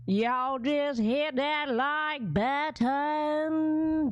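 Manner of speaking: slow, drawn-out Jamaican lilt; Jamaican accent. Retold or imitated. Imitating a Jamaican accent for viewers. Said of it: "She did the Jamaica version".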